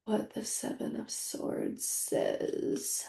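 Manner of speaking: whispering to herself under her breath; whispered mutter. Real, not acted. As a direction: mutter it while typing a search. Muttering while searching on Google.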